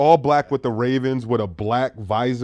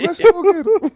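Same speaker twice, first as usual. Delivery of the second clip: put-on southern accent; 7 dB louder than usual. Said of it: "Do that again".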